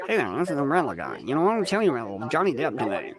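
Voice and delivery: fast, nasal show-host voice; host the channel in a rushed nasal voice. Pretend. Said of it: "if I hosted the channel like that".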